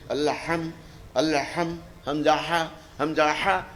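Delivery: students' sing-song "আল্লাহ হাম" and "হামজাহা" with rising ends; mock drill recitation. Preacher mocking madrasa students' rote drilling, sing-song. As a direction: parrot rote pronunciation drills. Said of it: "student উচ্চারণ করছেন".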